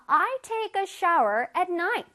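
slow, clearly spoken example sentence; slow modelling. Shown as a demonstration. Teacher repeats the example for children, slowly. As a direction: say it slowly for learners to copy.

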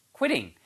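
"quitting" with lips pushed forward on the kw; "quitting" said with a clear rounded kw start; qu pronunciation. Shown as a demonstration. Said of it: "발음이 Q 발음이요".

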